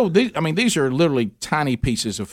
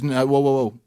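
mild mock stern server. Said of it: "someone comes at me somewhat aggressive and says".

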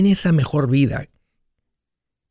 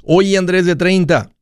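higher-pitched hail to a younger self; future self calling back; 5 semitones higher than usual. Acted. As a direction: call out to your past self. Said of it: "Estoy en el futuro hablándole al pasado".

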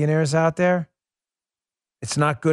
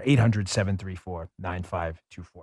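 slow, lower number read; 6 semitones lower, 4 dB quieter than usual. Shown as a demonstration. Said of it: "Let me say that number again".

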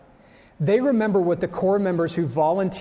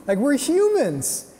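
emotional appeal; 9 semitones higher, slower than usual. Real, not acted. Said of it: "I'm gonna get all emotional".

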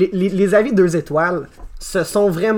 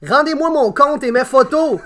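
angry review read; 4 semitones higher than usual. Acted. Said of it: "ce que Gordius dit".

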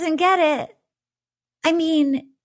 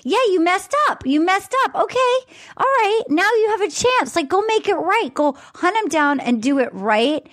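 higher, eager pep talk; excited urging, much higher pitched; retold excitement; 6 semitones higher than usual. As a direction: cheer her on to go fix it. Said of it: "I was so excited".

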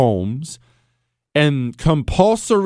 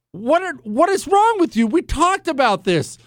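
exasperated protest; 11 semitones higher than usual. Retold or imitated. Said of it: "with my hands raised saying".

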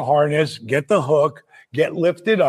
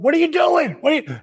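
alarmed shout; 10 semitones higher, faster than usual. Retold or imitated. Retelling Sting yelling at the guys mid-stunt, alarmed shout. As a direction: bark it out in sudden alarm. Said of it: "until I hear Sting going".

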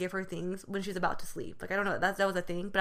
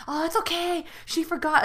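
high, lilting grandma reassurance, imitated; smooth it over like a doting grandma; soothing grandma; 9 semitones higher, 4 dB louder than usual. Voices grandma defending her.

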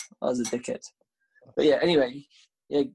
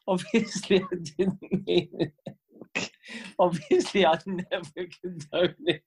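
mock sincere; 4 semitones higher, slower than usual.

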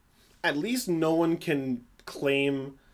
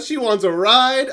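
mock incredulous; 9 semitones higher, 10 dB louder, slower than usual. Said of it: "And Biggie's like".

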